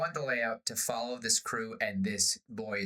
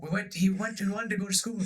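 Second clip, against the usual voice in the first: sheepish pirate; 9 semitones higher, faster than usual. Retold or imitated. Pirate explains cabin boy left.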